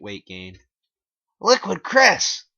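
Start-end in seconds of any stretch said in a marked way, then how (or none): 1.4-2.4 very high, loud and slow; high slow self-introduction; Liquid Chris voice. A narrator's reading. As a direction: announce the name slowly in a squeaky voice. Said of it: "he said".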